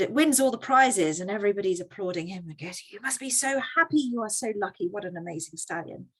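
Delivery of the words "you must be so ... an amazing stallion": gushing neighbours. Acted. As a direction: gush like impressed neighbours. Neighbours voiced gushing over the farmer.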